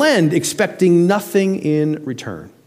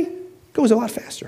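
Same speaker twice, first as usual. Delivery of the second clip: whisper; 6 semitones higher, 6 dB quieter than usual. Shown as a demonstration. Repeated line, whispered take.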